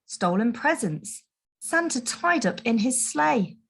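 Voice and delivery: usual speaking voice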